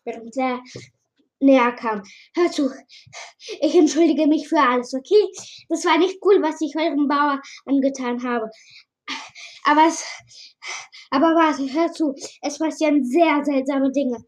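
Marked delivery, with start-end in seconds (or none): 2.3-14.2 a nervous stranger rushing out his apology; lightly voiced frantic newcomer pleading to be heard; Mike's voice. Voices Mike, pleading and rushed.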